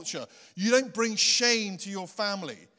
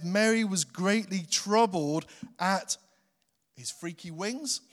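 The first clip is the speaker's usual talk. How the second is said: deliberate misreading; 3 dB louder than usual. Shown as a demonstration. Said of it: "No, his words".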